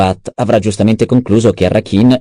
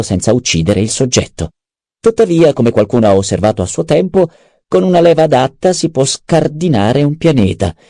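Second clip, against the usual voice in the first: a slightly higher, lively voice for Peter's lines; lightly voiced schemer; 5 semitones higher than usual. Adviser briefing the baron on the duke's possible escape, lightly voiced. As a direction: lay out the options with lifted pitch.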